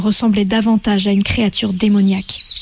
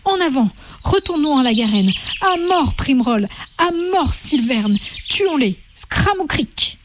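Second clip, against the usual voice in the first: rising frenzied chant, much higher; war cry; 5 semitones higher than usual. Acted. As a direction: whip the crowd up to a killing pitch. Rabbits rallying to kill.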